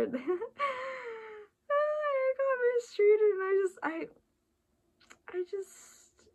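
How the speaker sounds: high, breathless laugh through the words; laughing at herself. Real, not acted. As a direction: crack up at your own contradiction. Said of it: "I love how I say that".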